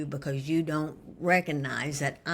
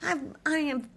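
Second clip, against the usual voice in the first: high, whiny put-on complaint; mock her own huffy self, way up high; exaggerated whiny me; high whiny self-mimic; 10 semitones higher than usual. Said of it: "I'm like".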